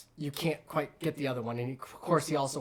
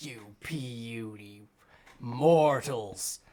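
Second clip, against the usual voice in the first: slow, lower monster voice; booming frost giant; 4 semitones lower, much slower than usual. Acted. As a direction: sneer it down at tiny mortals. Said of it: "and he just".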